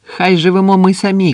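loud, high-pitched rallying shout; exclaimed high and loud; shouted cheer. A narrator's reading. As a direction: cry it out like a toast. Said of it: "крикнув Андрес".

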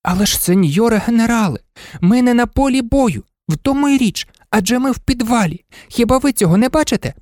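high, reasoning toy-dog voice; persuasive little dog. A narrator's reading. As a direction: reason urgently in a small high voice. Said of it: "переконував курдуплик". (тоненький переконливий голос собачки)

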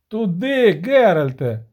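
loud call pointing the way; barked shout. Acted. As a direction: yell directions mid-chase. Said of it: "гарикнув Денті".

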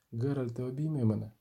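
a weak last request to Geralt; faint dying plea. Acted. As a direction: barely voice it, life draining away. Dying Renfri begs Geralt.

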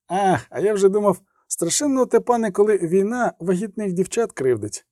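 a kindly orderly soothing his patient; chatty field medic. Acted. (балакучий фельдшер заспокоює відьмака)

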